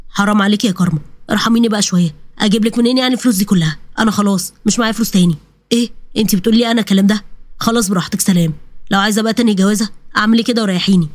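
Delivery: a hint of a weary brother pleading then snapping; fed-up young man. Walid argues with his fiancée about money, lightly voiced and exasperated.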